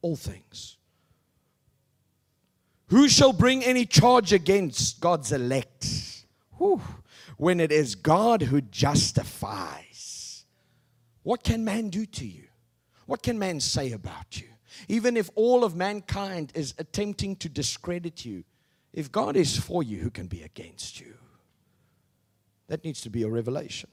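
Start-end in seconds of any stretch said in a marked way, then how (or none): 2.9-10.5 loud and slow proclamation; slow preaching. Acted. Preacher to congregation, slow and loud. 20.0-21.1 low hushed whisper. Acted. Preacher whispering the promise to the congregation. Sudden whisper after loud question.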